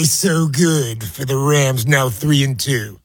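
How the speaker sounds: slow, lightly imitated sportscaster; Chris Berman. Host retrying his sportscaster headline for the Rams, slow impersonation. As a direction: stretch the words out, then a mock grunt. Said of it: "I'm trying to do the impersonation".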